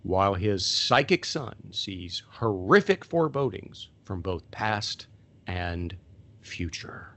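trailer voice fading to a whisper; movie trailer voice. Shown as a demonstration. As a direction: drop to an ominous whisper at the end. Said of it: "I'm gonna try to do this in my best trailer voice".

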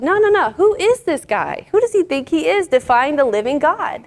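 high-pitched mock outrage; indignant. David answering the frightened soldiers, acted indignant. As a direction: brush them off in acted, affronted disbelief. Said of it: "he's getting upset".

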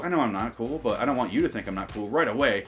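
ordinary talk, nothing marked

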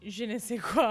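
je ne sais quoi said jokily with a laugh; silly French phrase. Shown as a demonstration. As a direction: toss off je ne sais quoi in a playful mock-French way. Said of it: "I say it in, like, a silly way".

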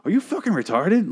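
high-pitched mock incredulous attack; insult comic. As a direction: lay into them like an insult comic. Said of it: "insult comic. Just like".

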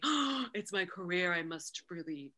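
gasp, then over-serious resolve; mock earnest. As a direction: send up precious career-mindedness. Mocks over-serious careerist attitude.

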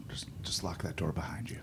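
hushed whispered instruction. Acted. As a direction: whisper it like a shady back-room deal. Secret back-room shop deal.

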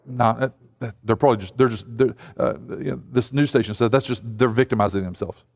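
low, muttered dismissal; dismissive skeptic. Retold or imitated. Preacher mocking a skeptic of abuse victims, low and dismissive. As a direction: brush their story off in a low voice. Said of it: "I can't just go like".

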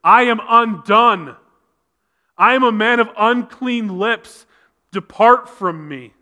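loud, high, drawn-out cry of dismay; imitated wail. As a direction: wail it slowly, as a preacher quoting a prophet. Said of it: "Isaiah wailed".

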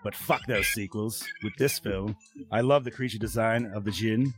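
put-on shaky-footed Aussie accent slipping toward Southern; Kano's Australian accent. Host reads Brody's review aloud, in a wobbly mock Aussie accent. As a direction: mimic Kano's Australian, drifting into Southern and English. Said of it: "I was trying to, like, mimic Kano lines".

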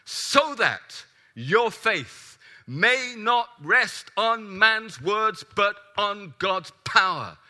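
loud, slow, ringing preacher's delivery; preaching at full force. Acted. Preacher ranting at the congregation, loud and slow. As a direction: proclaim every word of Paul slowly and loudly. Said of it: "ranting at you like I am this morning".

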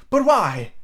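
high, baffled protest; crying out. A narrator's reading. Nephew refused by his uncle, high baffled cry. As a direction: cry it out in disbelief. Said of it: "Scrooge's nephew cried".

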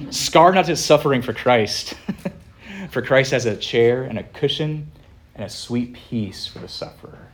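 mock Scottish brogue, laughing through it; a playful, deliberately bad Scottish accent; hammed-up Scottish pastor voice. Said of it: "here comes a really bad Scottish accent".

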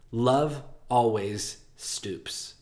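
very slow, soft, gentle; old woman's gentle comfort, drawn out slowly; tender reassurance. Acted. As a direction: stoop each word down like a kind grandmother. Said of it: "she said, rubbing my knuckles".

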